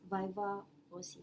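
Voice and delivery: viva voce the English way, "VY-va VO-see"; English pronunciation of voce. Shown as a demonstration. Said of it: "if we pronounce it in English".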